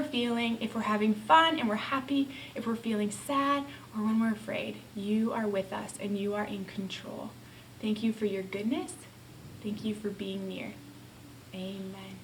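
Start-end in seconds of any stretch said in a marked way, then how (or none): 2.5-8.9 whispered prayer. Real, not acted. 9.6-12.2 whispered prayer. Real, not acted.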